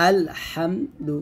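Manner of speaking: আলহামদু slowly, with a light lam; light lam in recitation. Shown as a demonstration. Teacher to students, modelling a light lam. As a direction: draw out আলহামদু with a thin lam. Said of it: "এরকমভাবে".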